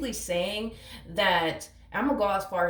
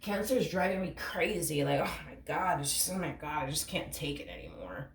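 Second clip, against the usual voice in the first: overwhelmed imitation; 2 semitones lower, 6 dB quieter than usual. Voicing the fed-up partner complaining about Cancer, sinking exasperation. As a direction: sigh it out like someone worn down. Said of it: "has that type of feel to it".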